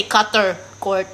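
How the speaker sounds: "Cutter Court" with hard American R's; fully pronounced R in "Cutter". Shown as a demonstration. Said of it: "people will not understand you".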